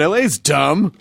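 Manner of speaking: mock San Francisco accent, lilting up at the end; disdainful San Francisco dig at LA. Shown as a demonstration. Host repeating the rivalry jibe, San Francisco accent. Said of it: "it sounds more like this".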